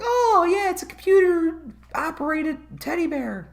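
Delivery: mock sarcastic cheer. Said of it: "And everyone's like".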